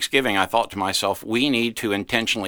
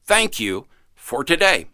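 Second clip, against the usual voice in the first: said out loud; 6 semitones higher than usual. Shown as a demonstration. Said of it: "Say it out loud".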